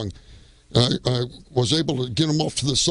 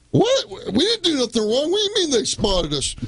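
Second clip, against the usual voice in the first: retold surprise; 13 semitones higher than usual. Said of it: "I'm thinking".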